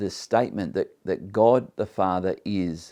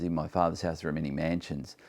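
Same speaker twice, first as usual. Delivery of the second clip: quick, hushed King James line; 3 semitones lower, 6 dB quieter, faster than usual. Shown as a demonstration. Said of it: "the King James Bible renders this as".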